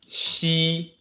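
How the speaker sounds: "Zhi, chi, shi" curled back, then "ji, qi, xi" with the tongue flat, said high; teacher contrasts the two rows; two sound series. Shown as a demonstration. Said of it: "can you hear the difference when I pronounce that?".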